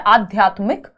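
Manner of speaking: "आध्यात्मिक" with long आ first and short मिक last; correct short ending. Shown as a demonstration. Teacher confirming the right option, "आध्यात्मिक" ending in short मिक. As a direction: say "आध्यात्मिक" carefully, closing on short इ. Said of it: "first option ही सही है".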